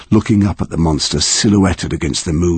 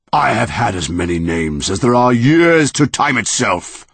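monster roaring; 5 semitones higher than usual. Acted. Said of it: "roared the monster".

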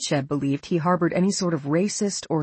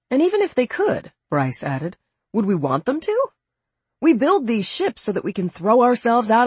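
put-on higher, animated young man; lightly raised, earnest young voice; eager young officer; 6 semitones higher than usual. A narrator's reading. Bryce argues in dialogue.

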